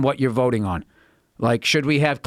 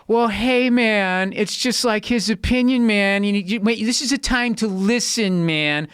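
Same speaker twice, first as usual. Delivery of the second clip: mock laid-back liberal; 5 semitones higher than usual. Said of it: "All the liberals were just like".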